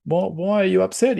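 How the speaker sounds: high-pitched puzzled concern; concerned questioning. Acted. Coach checking on his upset player, high concerned voice. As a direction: ask haltingly, pitched well up. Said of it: "he goes over to Fed and goes".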